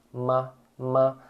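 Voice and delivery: ma said as in Portuguese; plain clear ma, no puff of air; Chinese ma. Shown as a demonstration. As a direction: Mandarin ma syllable.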